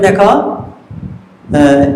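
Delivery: দেখো, আহ stretched very slowly; drawn-out model. Shown as a demonstration. Teacher models a slow prompt for students. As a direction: draw it out patiently for the children. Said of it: "বলবেন".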